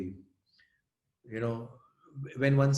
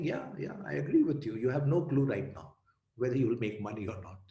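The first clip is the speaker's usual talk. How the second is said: sarcastic. Retold or imitated. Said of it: "full of sarcasm".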